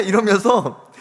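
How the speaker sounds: usual speaking voice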